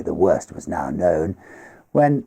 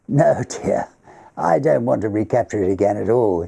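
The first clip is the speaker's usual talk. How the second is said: lightly voiced host, higher and gently reassuring; Everard's voice; 4 semitones higher, 3 dB louder than usual. Everard reassuring his wife he won't relive it, gentle. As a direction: soothe the worried wife.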